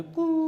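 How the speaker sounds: conch sound. Shown as a demonstration. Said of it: "शंख की ध्वनि कैसे आती है".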